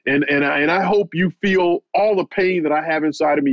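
imitating him pouring out his pain; building rage. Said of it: "lashing out at me".

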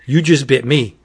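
hammed-up panicked stop; alarmed whoa. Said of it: "Igor's all".

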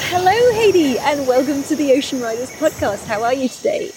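excited high-pitched greeting that settles as it goes; genuinely stoked welcome, starting way up high. Real, not acted. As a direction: greet your guest thrilled, pitch soaring on the hello. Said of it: "it goes up an octave or two".

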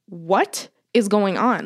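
slow, spaced-out disbelieving question; slowly acted dismay; retold bewilderment. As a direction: draw out each word, baffled. Retelling alarm at mom's panicked call.

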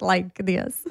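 imitated Russian accent. Showing how all the friends talked, mock Russian accent. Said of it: "talked in this Russian accent".

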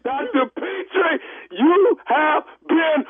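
prank reveal laughing. Real, not acted.

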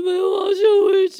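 put-on high, loud wail of a homesick kid; mock-bawl it like a crying fifth grader; imitating a sobbing child. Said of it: "我就在那电话里一直哭".

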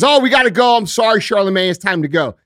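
high, loud, hurried mock staffer cutting things off, fading back to normal. Host imitating a staffer cutting off the interview, high and loud at first. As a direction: play a flustered aide ending the call, starting high and loud and then settling. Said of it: "jumps on a Skype call and says".

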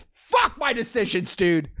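high-pitched curse through laughter; laughing curse. Real, not acted. Podcaster regretting a late-night recording, laughing curse. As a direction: curse yourself while cracking up.

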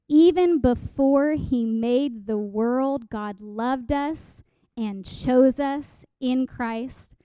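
measured, declarative Bible reading; scripture reading. Acted. Preacher reads Scripture aloud to the congregation, measured and emphatic. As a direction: read it out deliberately, leaning on key words.

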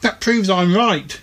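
a chirpy little creature making his case; reasoning Twang. Acted. Twang character line in story.

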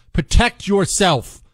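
ordinary talk, nothing marked

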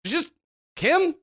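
lightly voiced startled mechanic; astonished recognition. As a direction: Tool Boy suddenly recognises Kim. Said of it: "Tool Boy just goes".

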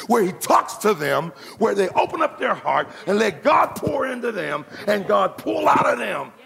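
full-force preaching. Acted. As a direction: preach it hard to the crowd.

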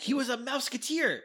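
high, loud gleeful outburst; loud, high joking interjection; excited exclamation. Real, not acted. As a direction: blurt it out way up high. Co-host's delighted joking interjection.

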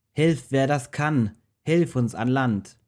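high, slow pleading cry; desperate cry for help. Acted. Frightened sailors cry out high and slow for help. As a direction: beg anyone for rescue. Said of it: "So riefen sie".

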